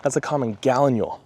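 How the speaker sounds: winded, talking between breaths; short of breath from walking in heat. Real, not acted. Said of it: "Sorry, I'm a little bit out of breath".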